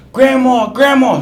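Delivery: high, loud call for help. Retold or imitated. Uncle calling his grandma for help, loud call. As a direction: yell for grandma from the next room.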